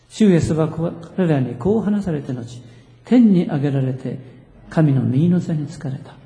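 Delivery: measured, projected congregational reading; deliberate, solemn recitation in firm phrases; scripture reading. Real, not acted. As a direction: lead the congregation in reading the verses aloud. Leads congregation reading scripture aloud.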